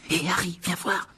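high, hushed excited call; calling over. Acted. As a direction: beckon a friend to come and look. Ron calls Harry to the window.

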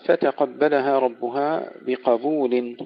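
فتقبلها with heavy قاف and doubled باء; slow recitation. Shown as a demonstration. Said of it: "تفخيم". (ترتيل فتقبلها ربها بقبول)

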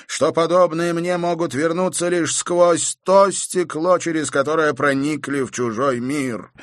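high, loud, strained voice; angry rant. A narrator's reading. Pelt rails at the countess, furious. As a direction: rage at the woman who broke the mirror.

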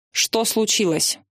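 slow, mildly cross question; a touch of annoyance, drawn out; irritated. A narrator's reading. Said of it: "раздался рассерженный женский голос". (медленно, с лёгким раздражением)

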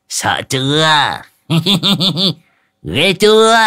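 high, slow teasing with giggles; mocking, laughing. A narrator's reading. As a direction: gloat through a laugh. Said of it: "cười hì hì".

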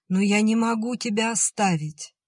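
sudden pained outcry; cry out. A narrator's reading. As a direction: blurt it out in protest. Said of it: "вскрикнула Лида".

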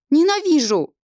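high, loud final cry; screamed hatred. A narrator's reading. Girl to the demon, high loud scream of hatred. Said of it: "закричала".

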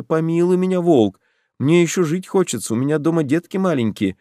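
high, pleading little hare; a small hare begging for mercy. A narrator's reading. Hare pleading with the wolf to spare him, high and pleading.

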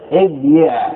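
ابيع as ib-yi', consonant y; underlying form. Shown as a demonstration. Teacher repeating the original command form, ib-yi'. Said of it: "هذا الأصل".

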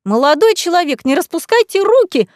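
high, loud indignant shriek; shrill squeal. A narrator's reading. Offended lady shrieking at the young man carrying her. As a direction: squeal in outrage at his hands. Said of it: "Вдруг взвизгнула администраторша".

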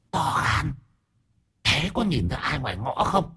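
shrill, imperious spirit voice; shrill possessed woman. A narrator's reading. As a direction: pitch it up like a possessed old aunt. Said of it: "vẫn nói bằng giọng the thé".

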